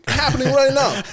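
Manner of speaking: mock gleeful gotcha. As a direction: pipe it up high, delighted to be proven right. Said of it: "I'm like".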